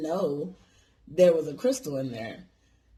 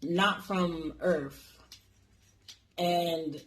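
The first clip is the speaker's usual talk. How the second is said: imitated Chinese accent; slower than usual. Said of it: "talking in fucking broken English".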